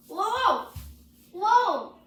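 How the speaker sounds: high, rising-then-falling shout of alarm; startled cry. Acted. Worker finds the thing in the shed, startled cry. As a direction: yelp it in sudden shock.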